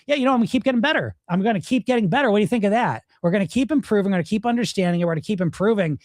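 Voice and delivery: insistent retort, starting high and fast, then settling; quick, defiant self-argument; sarcastic comeback. Acted. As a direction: talk back stubbornly to the inner critic. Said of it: "turn into a sarcastic good voice".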